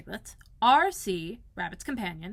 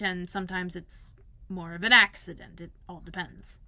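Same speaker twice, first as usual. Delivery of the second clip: hesitant bear. Acted. Pooh hesitant explaining his boat.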